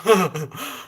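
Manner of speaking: short chuckle at own story; laugh. Real, not acted. Woman amused at being called thin, chuckling. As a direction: let out a brief laugh.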